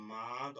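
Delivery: মাদ with a long held "aa"; drawn-out vowel. Shown as a demonstration. Teacher explains lengthening to pupils, drawn-out vowel. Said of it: "টেনে পড়া বা স্বরকে দীর্ঘ করে বলা".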